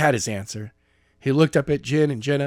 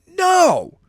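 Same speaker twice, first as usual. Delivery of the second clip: loud, much higher flat-out No; shouted refusal; 8 dB louder than usual. Acted. Skylar refusing to go back to the cell, loud shout. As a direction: bark the refusal at them.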